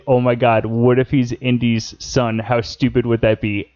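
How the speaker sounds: understated sarcastic mock amazement; lightly mock the idea, voice held level. Host reacting to casting rumor, lightly sarcastic. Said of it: "So sarcastically, I was gonna say".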